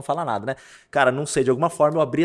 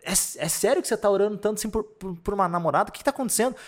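higher-pitched, incredulous questioning; retold disbelief; 7 semitones higher than usual. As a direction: question him as if you can't believe it. Reconta sua pergunta incrédula ao rapaz. (incredulidade encenada, voz mais aguda)

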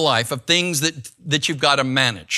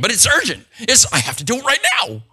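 higher-pitched, insistent mimicry of a texter; mock urgency; 5 semitones higher than usual. Preacher mimics someone texting him on Sunday morning, mock urgent. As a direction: play up the panic, lightly mocking.

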